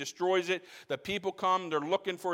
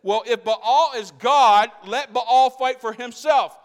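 loud, higher, slowed defiance; defiant father's cry; 5 semitones higher, 12 dB louder than usual. Retold or imitated. Joash defying the villagers, loud and slow. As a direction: hurl it at the crowd. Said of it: "he says".

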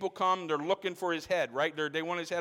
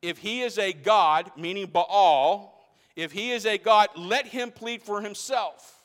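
rising proclamation; 2 semitones higher, 5 dB louder than usual. Retold or imitated. Joash daring the village to defend Baal, building louder. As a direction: defy the crowd. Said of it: "And he says".

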